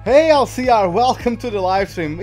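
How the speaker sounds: loud, high call-out; high, loud hello; hearty greeting. Real, not acted. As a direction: hail a viewer joining the stream. Streamer calls out greeting to viewer.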